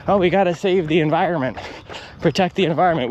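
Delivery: mocking do-gooder. A vlogger mocks environmentalists' virtue signaling, sneering mock preachiness. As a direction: parrot the slogan with a sneer. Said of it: "It's like virtue signaling".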